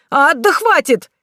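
high, slow pained cry; pained protest. Acted. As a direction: wail at being zapped. Groom zapped again, protests.

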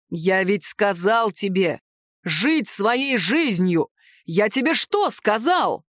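slow, deliberate scolding. Acted. Dragon scolds the house spirit, slow and stern. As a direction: lay it out slowly like scolding a naughty kitten. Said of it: "выговаривал Гадор ей, как нашкодившему котёнку".

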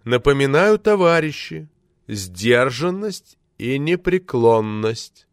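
loud, oratorical exhortation; stretched-out, declamatory call; solemn appeal. A narrator's reading. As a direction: appeal to the comrades, drawing out the words. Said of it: "воззвал Т Т".

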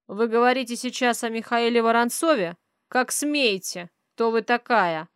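loud, outraged demand, slowing down; a rich man taking offence at a stranger; indignant rich man. Acted. Rich father rages at the accusing mother, loud and indignant. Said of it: "Богач включил богача".

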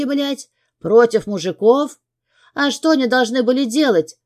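high, loud furious outburst; exploding. A narrator's reading. Angry mother shouting back at her husband. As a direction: blow up at him. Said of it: "взрывается Ягодка ещё сильнее".

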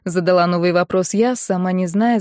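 ordinary delivery, nothing marked

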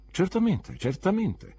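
high, clipped agreement, twice; severe spinster. A narrator's reading. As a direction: snap it out like a stern aunt. Miss Marston agrees curtly. (zitella severa che approva, voce alta)

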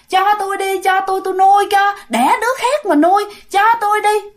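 high, monotone little plea; cute pleading ghost. Acted. Ghost woman asks to raise the baby, cute pleading. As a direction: beg sweetly, holding the pitch high. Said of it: "nó dễ thương quá à".

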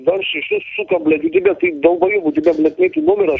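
high, heated yelling; angry outburst. Real, not acted. Caller scolding the troll, high angry rant. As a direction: yell the insults up high. Shouting insults at opponent.

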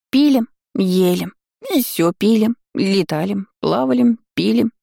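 lightly voiced tipsy little gargoyle; tipsy creature voice. Drunk gargoyle lists her evening. (пьяненький голосок)

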